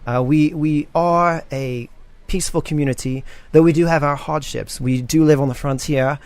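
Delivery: the sheriff announcing a welcome to all arrivals; sheriff's announcement. Acted. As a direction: address the crowd like a town official.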